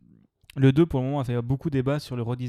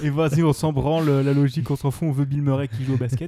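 loud mock quote; 6 dB louder than usual. Carrying on mocking the filmmakers' logic.

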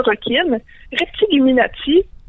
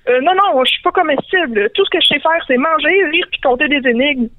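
higher, a touch of panic in the hobbit's voice; nervous hobbit; 4 semitones higher than usual. Acted. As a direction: plead your way out, a little scared. Hobbit apeuré répond à la créature. (petit hobbit nerveux, voix plus aiguë)

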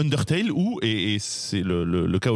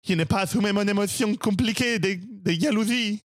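put-on climbing much higher into a theatrical Spanish-accented confession; Spanish accent rising; 8 semitones higher than usual. Cat swordsman admitting his jealousy to Donkey, theatrical Spanish accent. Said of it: "cet accent".

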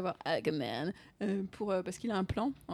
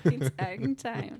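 slow catchphrase; much slower than usual. Retold or imitated. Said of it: "tu lui demandes le contrôle".

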